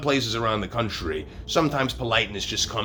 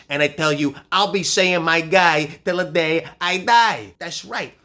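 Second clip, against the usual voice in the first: loud and building, Brooklyn swagger; defiant shout; 6 semitones higher, 5 dB louder than usual. Real, not acted. Defiant rant at a comment troll.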